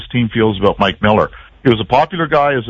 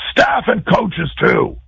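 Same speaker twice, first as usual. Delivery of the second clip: coach calling out; 11 semitones higher, slower than usual. Retold or imitated. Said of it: "and he went".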